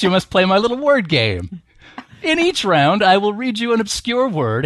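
lightly voiced leprechaun with American accent; a hint of a gleeful cartoon leprechaun. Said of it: "read in character as a leprechaun with an American accent".

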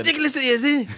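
laughing mock echo. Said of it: "Oh, God".

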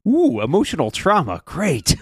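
dry sarcastic mock delight. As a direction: fake cheer, plainly unimpressed. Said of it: "Kat goes".

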